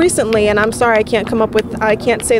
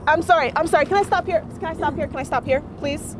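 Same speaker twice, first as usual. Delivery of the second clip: pleading; 5 semitones higher, 7 dB quieter than usual. Real, not acted. Pleading to interrupt, softer.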